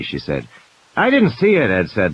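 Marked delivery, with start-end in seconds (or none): 1.0-1.7 higher, defensive man's voice; Ed dodging the doctor's question nervously; edgy Ed. A narrator's reading. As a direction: brush off the question quickly. Ed evasive answer.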